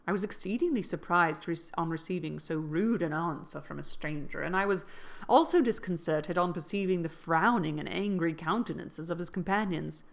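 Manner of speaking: steady audiobook reading voice; story narration. A narrator's reading. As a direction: read it like an audiobook. Reads a novel aloud.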